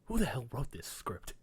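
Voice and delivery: Rickles. Retold or imitated. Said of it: "he's just like".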